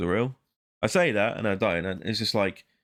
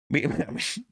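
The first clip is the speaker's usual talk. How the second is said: cat meowing; 8 semitones higher, slower than usual. Pretend. Silly cat noises again.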